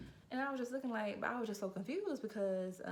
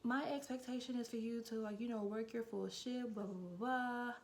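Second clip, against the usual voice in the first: lightly mimicked manager in a higher voice; a hint of an imitated boss, higher at the start; 5 semitones higher than usual. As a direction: retell the boss's speech, pitched up. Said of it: "And she was like".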